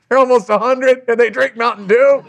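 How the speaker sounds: high-pitched incredulous question; retold astonishment, pitched right up; amazed disbelief. Preacher recalling his shock at the elderly couple's drink, amazed.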